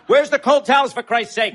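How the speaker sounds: frantic yell for towels; exasperated yell. Acted. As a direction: bellow across the room. Yelling for towels.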